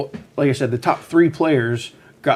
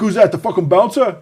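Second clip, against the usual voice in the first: put-on Long Island accent; 7 semitones higher, 4 dB louder than usual. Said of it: "with his thick Long Island accent".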